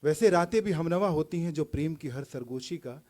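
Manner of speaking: declaimed verse, openings lifted and endings sinking; poetry recital. Acted. Poet asking who has seen love closest, poetry recital. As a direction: recite it phrase by phrase, building on repeated lines.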